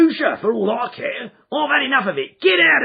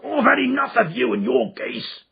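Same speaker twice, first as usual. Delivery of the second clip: loud, much higher furious yell; angry shout; 7 dB louder than usual. Acted. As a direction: bark the pestering man away. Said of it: "he shouted".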